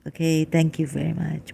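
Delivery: usual speaking voice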